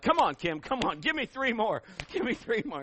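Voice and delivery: a hint of a pushy trainer; coach voice. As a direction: lightly urge her through the last reps. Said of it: "I get on this coach hat".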